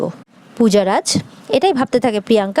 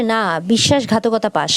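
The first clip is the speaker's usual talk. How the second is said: grave slow rebuke; 2 semitones lower, slower than usual. Retold or imitated. Father's grave accusation.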